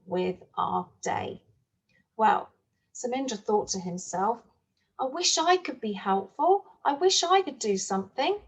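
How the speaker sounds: lively storytime narration with voiced characters; storyteller reading a farm tale to young children; story for children. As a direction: read it like a picture book to a class.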